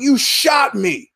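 high and slow, drawn out; indignant protest. Retold or imitated. Victim reminds the attacker, high and slow. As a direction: stretch it in disbelief.

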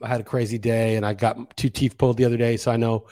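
mumbled, mouth full after dental work; marbles in mouth. Real, not acted. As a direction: speak like your mouth is stuffed. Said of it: "I might sound like I have marbles in my mouth".

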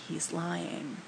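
hushed whisper, very soft. Retold or imitated. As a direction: lean in and breathe it. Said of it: "Toph whispers to Sokka".

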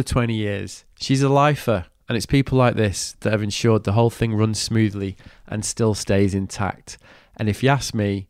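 measured, lightly polished host read; podcast host reading a prepared introduction; scripted podcast intro. Acted. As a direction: introduce the episode in an even, rehearsed read.

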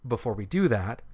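a faint nasal whistle under the words; whistling nose. Real, not acted. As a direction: air whistling through the nose. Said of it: "My nose is whistling".

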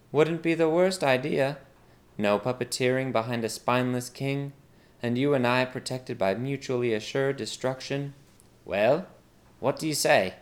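lightly voiced maid proposing a deal; scheming maid. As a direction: offer the plot casually. Maid's dialogue in story.

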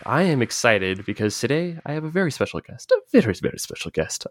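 put-on a light, not very good Catalan-accented Pep; half-hearted Spanish-accented English, a touch of Pep; Pep Guardiola impression. Host opening the interview in a so-so Pep accent. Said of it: "That's my Pep Guardiola impression".

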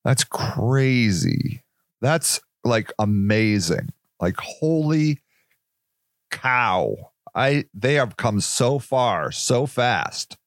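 lightly voiced awestruck God; awed amazement. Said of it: "God was like".

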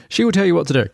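a last weak try at the villain; half-hearted Klaus. Retold or imitated. Host's final mock Klaus order about Cindy. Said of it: "I'm just gonna give up".

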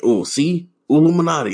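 high mock gasp of discovery, rising to a cry; mocking conspiracy voice. Mocking conspiracy theorists spotting a triangle, high mock reveal. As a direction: ham up a conspiracy nut's big reveal. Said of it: "So they're like".

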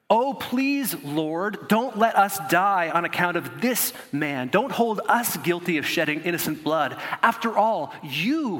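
high, loud begging prayer; desperate plea. Acted. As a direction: plead for your life. Sailors plead with the Lord.

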